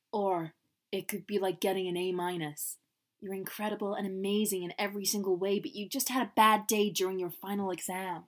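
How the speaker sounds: attempted American accent, softly spoken. The speaker reassures Eve about the grade, attempted American accent. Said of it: "shall I be doing an American accent?".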